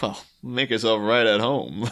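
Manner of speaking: understated sarcastic welcome; sardonic. Retold or imitated. Ivy to the intruder in her room, mildly sardonic. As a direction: say it dryly, with a slight bit of resentment. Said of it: "she just has a very sardonic".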